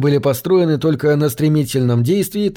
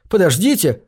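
shouting; 5 semitones higher than usual. Acted. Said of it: "закричал он".

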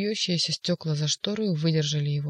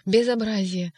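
louder, higher outraged cry; angry yell; 3 semitones higher, 4 dB louder than usual. Acted. Ivan throwing the phone, angry yell. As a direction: explode with outrage. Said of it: "вдруг завопил Иван".

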